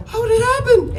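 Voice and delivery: high, teary, half-laughing question; mock crying. Imitating the friend breaking down at the fake death news. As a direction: play his sob through your own laughter.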